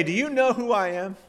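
high, indignant, self-important question; mock a prisoner pulling rank; lightly voiced arrogant challenge; haughty demand. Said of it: "He didn't say".

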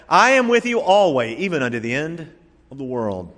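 "I am" punched high and loud, then falling away; strong emphasis on "I am" at the start; stress on the opening words. Shown as a demonstration. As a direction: hit "I am" hard, let "of the world" settle. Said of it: "by emphasizing a different word".

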